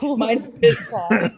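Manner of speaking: slow, laughing through it. Real, not acted. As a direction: laugh as you say it. Repeating joke nickname.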